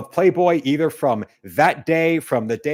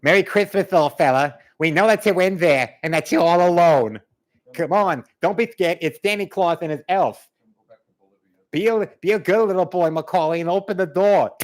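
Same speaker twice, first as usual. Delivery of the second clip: higher, louder coaxing Santa voice; Santa luring voice; 4 semitones higher, 4 dB louder than usual. Retold or imitated. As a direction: coax the kid to open the door. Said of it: "Kim Ryan says".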